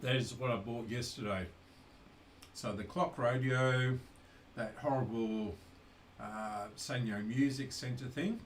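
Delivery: talking while chewing; words round a bite of food; mouth full. Real, not acted. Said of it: "Very rude talking with my mouth full".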